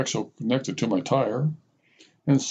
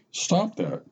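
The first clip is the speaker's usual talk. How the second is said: yelled; 6 semitones higher than usual. A narrator's reading. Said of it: "yelled my friend at her dog".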